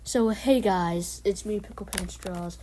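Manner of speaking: energetic stream intro, slow hey; big slow YouTuber greeting; YouTube voice. Pretend. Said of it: "I'm gonna put on my YouTube voice now".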